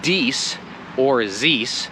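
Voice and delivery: "dies" hard d and "zis" buzzing z; mock wrong th. Shown as a demonstration. Teacher sarcastically inviting the mistake, mock wrong. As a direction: show the wrong forms sarcastically. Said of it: "please continue saying".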